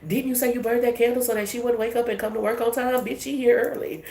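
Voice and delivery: mock gossip. Plotters in a group chat, lightly voiced gossip. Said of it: "Imagine them being in a group chat".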